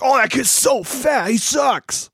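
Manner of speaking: lightly voiced grumpy old folks; judgy grandparents. Retelling the grandparents reading the paper, a light mock sneer. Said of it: "judging the shit out of every kid".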